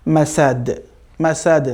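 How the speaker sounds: মাসাদ with an echoing bounce on the final d; qalqalah. Shown as a demonstration. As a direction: release the d of মাসাদ with a small rebound. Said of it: "দাল তো কলকলা হবেই".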